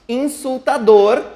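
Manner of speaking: INSULTADOR with a rising, punched DOR; stress on final DOR. Shown as a demonstration. Teacher asking for the strongest syllable, INSULTADOR rising on DOR. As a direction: lift the end of INSULTADOR, pushing the syllable DOR. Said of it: "nós temos a sílaba mais forte".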